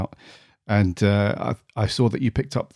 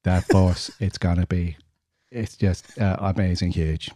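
bad Trump impression. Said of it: "Terrible impressions".

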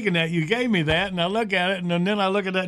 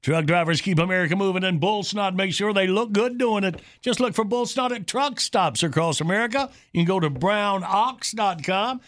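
steady ad-read voice selling the product; sponsor read. Acted. Host reads the bull snot sponsor ad, announcer style.

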